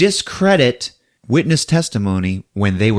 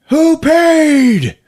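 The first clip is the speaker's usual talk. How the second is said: high, loud quick question; high mock cop; 6 dB louder than usual. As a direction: snap it at him.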